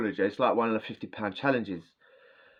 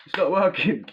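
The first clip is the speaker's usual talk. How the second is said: louder, echoing repeat in his head; echoing voices; 6 semitones higher, 7 dB louder than usual. Retold or imitated. Stoned man hearing lads' voices echo, loud and repeating. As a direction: call it out like it rings in the skull. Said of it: "echoing in my head".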